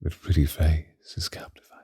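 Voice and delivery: soft admiring whisper, leaning in close; whispered compliment. Acted. Admiring the captive human's face, hushed whisper. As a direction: breathe it into their ear.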